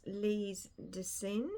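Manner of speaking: slow, mock French pronunciation of Lise Desein; self-mocking attempt at a French accent. Shown as a demonstration. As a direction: say the name with a put-on French accent. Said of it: "That's a nice French accent I've got".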